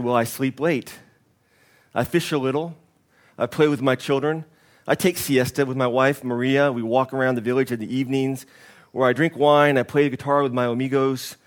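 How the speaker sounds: put-on a faint, half-hearted Mexican accent that barely lands; hint at a Mexican fisherman, then let it slip; attempted Mexican accent. Preacher voicing the contented Mexican fisherman in a faint Mexican accent. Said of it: "I was gonna do that in a Mexican accent".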